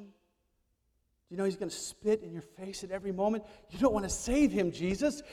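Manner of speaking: low, hushed, tempting murmur close to the ear; devil's whisper. Acted. The devil tempting Jesus in the garden, hushed and sly. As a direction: coax him softly like a devil at his ear. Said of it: "and whispered in his ear".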